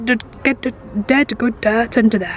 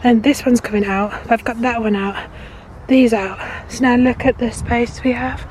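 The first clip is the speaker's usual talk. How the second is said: winded and loud; shallow breathing; 6 dB louder than usual. Real, not acted. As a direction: talk while catching breath. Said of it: "excuse the heavy breathing".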